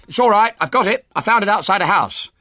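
high, loud, excited call. A narrator's reading. Ginger wheeling up with a found pram, calling out. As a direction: call it out across a distance, triumphant. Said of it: "He called out".

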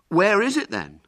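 high, loud demand. Acted. Douglas pressing William about the knife, demanding. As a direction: demand an answer from a friend. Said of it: "demanded Douglas".

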